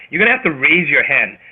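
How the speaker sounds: normal talking voice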